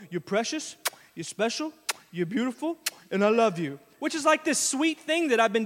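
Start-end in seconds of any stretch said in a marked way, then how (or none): 0.1-3.8 tender daddy words. Retold or imitated. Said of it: "Nora especially will go".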